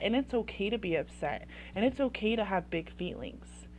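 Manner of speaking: gentle, validating reassurance; empathetic. Acted. Parent validating a child's big feelings, empathetic. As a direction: gently give the child permission. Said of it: "you're gonna be empathetic".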